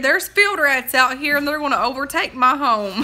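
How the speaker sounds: mildly distressed mock lament; retold crying. Grandma fearing field rats will take her home, mock crying. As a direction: imitate a grandmother fretting in tears. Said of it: "she was literally crying".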